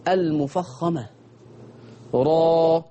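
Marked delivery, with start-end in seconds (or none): 2.1-2.8 را with a full, thick ra and open a; heavy ra. Shown as a demonstration. Teacher leading students to repeat heavy ra. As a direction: say را heavy from the back of the tongue. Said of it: "الراء المفخمة".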